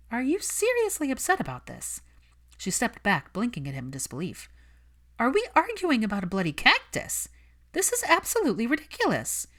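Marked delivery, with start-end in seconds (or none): 0.1-2.0 higher, disbelieving question; can't believe he's angry about this; shocked disbelief; incredulous. Acted. Hermione incredulous at Malfoy. 5.2-9.5 higher and louder, disbelieving; fed up and shouting at him; loud exasperated outburst. Acted. Hermione exasperated, shouting at Malfoy.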